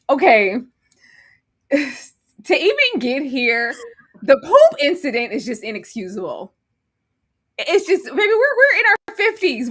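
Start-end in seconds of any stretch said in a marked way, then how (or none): 2.4-9.7 laughing. Real, not acted. Still laughing.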